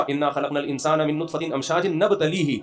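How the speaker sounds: slow, measured Arabic recitation; slow Quranic recitation. Acted. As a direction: recite the verse slowly and reverently.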